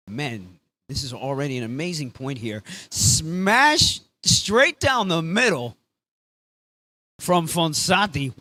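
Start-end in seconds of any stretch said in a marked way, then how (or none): 2.9-8.3 drawn-out, rising excited call; excited smash call. Real, not acted. Commentator calling a smash down the middle, excited. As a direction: stretch the words out as the smash lands.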